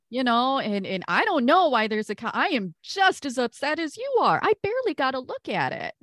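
mildly indignant, pitch climbing toward the end; defensive protest. Acted. Mel defends herself to Floxen, defensive. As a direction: push back with rising exasperation.

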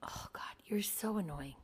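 breathy, annoyed half-whisper; exasperated whisper. Real, not acted.

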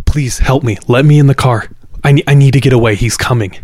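mildly frantic imitated plea; terrified pleading. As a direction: act out a frightened woman begging to be let in. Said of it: "genuinely terrified".

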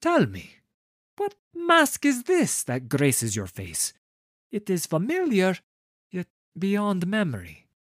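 awed courtier. A narrator's reading. Director asking the lady about her mask, awed. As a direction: marvel at the mask aloud.

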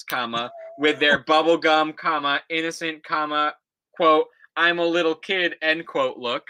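put-on reading an old essay aloud, punctuation and all; dictating. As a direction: read it out like dictation, calling each comma. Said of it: "I'm telling you the punctuation".

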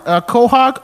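high, loud tentative cartoon voice; Peter Griffin. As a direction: bluff an answer as a cartoon dad. Improvising answer as Peter Griffin.

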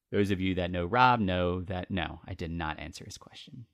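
ordinary delivery

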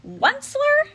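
high, loud croaking cry. Acted. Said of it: "he cried with a cruffulous croak".

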